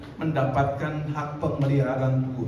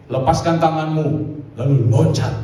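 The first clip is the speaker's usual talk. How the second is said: louder, firm command from above; 6 dB louder than usual. Retold or imitated. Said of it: "ada suara dari atas". (suara dari atas memberi perintah)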